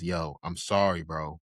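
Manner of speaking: slow, grave delivery; serious, low tone. Retold or imitated. Imitating Mikasa's warning to Krista, serious low tone. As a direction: say it dead serious, unhurried. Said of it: "with this serious, low tone".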